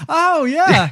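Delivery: friendly Canadian "Oh, yeah"; bright, high Canadian politeness; Canadian accent. Retold or imitated. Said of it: "They'll be like".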